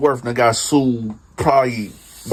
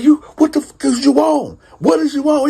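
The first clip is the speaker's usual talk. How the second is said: retold shout. Shouting at the cellmate.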